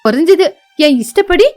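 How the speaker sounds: indignant, arguing back; an arrogant rich wife quarrelling over the old sofa; angry wife. Acted. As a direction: press every complaint with scorn. Wife boasts of her money.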